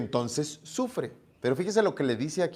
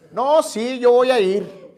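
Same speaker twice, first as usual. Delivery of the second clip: higher, louder eager yes; eager teen; 8 semitones higher, 7 dB louder, slower than usual. Retold or imitated. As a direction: jump at the invitation. Muchacho emocionado acepta la invitación. (muchacho emocionado, más agudo y fuerte)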